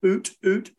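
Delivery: oot with hot foggy air. Shown as a demonstration. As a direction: breathe oot like fogging a window. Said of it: "fog in a window saying".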